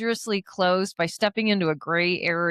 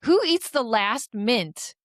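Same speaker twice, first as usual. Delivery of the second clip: indignant. Retold or imitated. Retelling how she confronted a coworker over mints, indignant.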